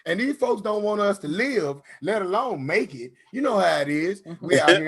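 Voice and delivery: committing to the bit. Retold or imitated. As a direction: go all in on the bro speech. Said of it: "commit to it".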